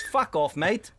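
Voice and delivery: high, loud dismissive jeer; mock pub heckler. Pub crowd dismissing the tweeter.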